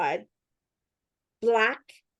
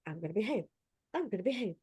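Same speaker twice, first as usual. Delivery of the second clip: meek promise; 8 dB quieter, faster than usual. Retold or imitated. Promising Santa to behave.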